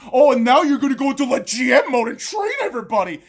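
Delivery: yelling in disgust; angry shout. Real, not acted. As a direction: lash out at him. Angry rant at LeBron.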